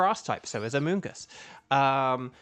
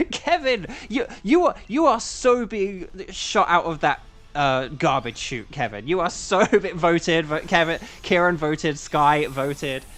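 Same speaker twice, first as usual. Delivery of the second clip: laughing mock threat; 4 dB louder than usual.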